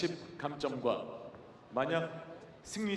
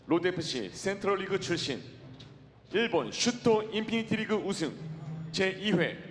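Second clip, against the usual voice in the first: booming ring announcer intro; arena announcer; 3 semitones higher, 3 dB louder than usual. Acted. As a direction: announce the fighter to the crowd.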